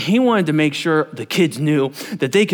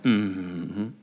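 low, soft murmured mm-hmm; imitating a sheepish murmur of agreement; chastened low hum; 7 semitones lower, 8 dB quieter than usual. Counselors answering the director's rebuke, chastened low hum. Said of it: "we all went".

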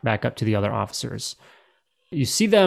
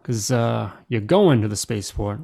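lightly voiced inquisitive officer; slightly raised in-character officer voice; questioning officer. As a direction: question a traveller at a checkpoint.

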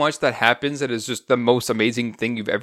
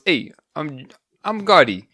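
mock New York accent; 3 semitones higher than usual. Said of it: "That's such a bad accent".

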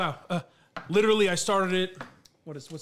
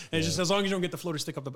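laughing; faster than usual. Real, not acted. Joking while laughing.

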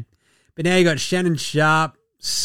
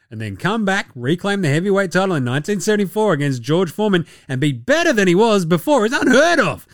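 Magic. Retold or imitated. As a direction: proclaim it grandly, punching the big words. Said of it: "just Magic just yelling about how famous he is".

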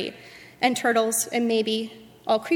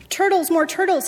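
storybook royal bellow, pitched up; bellowed demand; 7 semitones higher, 4 dB louder than usual. A narrator's reading. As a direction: bellow it higher, like a greedy king. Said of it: "he bellowed and bayed".

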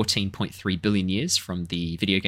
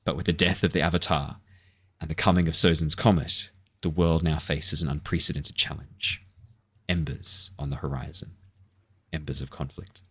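dramatic intro narration; 2 semitones lower than usual. Shown as a demonstration. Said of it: "my little intro that I'm thinking is gonna be".

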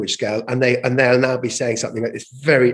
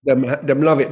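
lightly Jamaican patois phrasing; a touch of Jamaican patois for "Them, them love it". Shown as a demonstration. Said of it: "how do people respond if an outsider attempts to speak patois".

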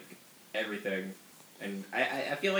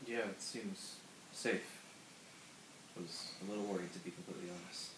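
worried whisper; 12 dB quieter than usual. Acted. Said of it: "Why are we whispering?".

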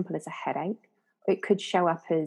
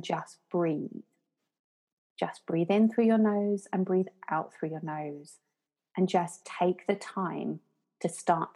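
calm meditation guide. Shown as a demonstration. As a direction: gently talk a beginner through breathing. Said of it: "I go".

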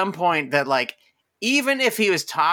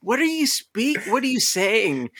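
gushing white person; 7 semitones higher than usual. Retold or imitated. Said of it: "generic white person thing".

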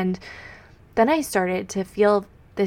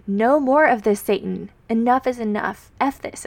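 fierce defiance; 2 semitones higher, 3 dB louder than usual. Retold or imitated. Speaker rising to fight the voices of the enemy, fierce raised defiance. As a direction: stand up tall and shout it down. Stands up against Satan's voices.

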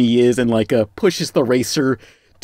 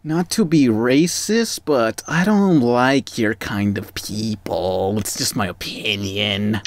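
deadpan; 3 semitones lower, slower than usual. Pretend. Deadpan racist persona joke.

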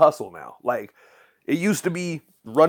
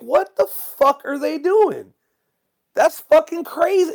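much higher, slow, stunned disbelief; incredulous outrage; 4 dB louder, slower than usual. Retold or imitated. Complaining that YouTube froze his views, high and stunned. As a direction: let the outrage climb high and stretch out. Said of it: "And I'm like".

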